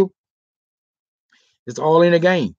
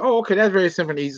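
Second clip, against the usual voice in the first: high woman's voice; 6 semitones higher, much faster than usual. Retold or imitated. Quoting the woman.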